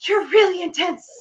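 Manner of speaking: high whispered, mock-awkward aside; strained stage whisper. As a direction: whisper it, overwhelmed by their intensity. Awkward aside to intense fan.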